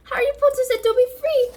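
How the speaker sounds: high, loud elf voice; Dobby insisting eagerly; excited elf. Acted.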